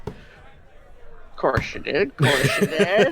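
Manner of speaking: chuckling through the words; laughing. Acted. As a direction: tease it with a laugh. NPC teasing with laughter.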